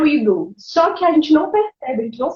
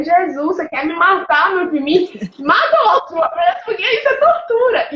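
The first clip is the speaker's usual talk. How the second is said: laughing complaint; 5 semitones higher than usual. Retold or imitated.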